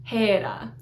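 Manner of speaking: "Hera" as HAY-ra with a tapped r; slow, careful Greek "Hera", long e; Greek pronunciation. Shown as a demonstration. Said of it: "Hera is Hera".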